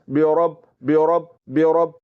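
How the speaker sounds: ब्योरब with a full, thick ra; heavy ra. Shown as a demonstration. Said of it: "रा को पुर करके पढ़ना है".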